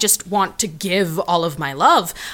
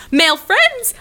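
thrilled cry; 9 semitones higher, 3 dB louder, slower than usual. Acted. Thrilled exclamation.

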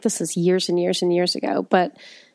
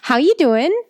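put-on Chicago accent; 5 semitones higher than usual. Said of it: "for somebody to be like".

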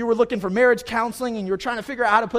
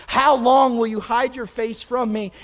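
raised, forceful plea; crying out to God; 4 semitones higher, 6 dB louder than usual. Acted. Hopeless psalmist to a God hiding his face, crying out. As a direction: push the question out high and loud. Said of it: "that's what David's crying out".

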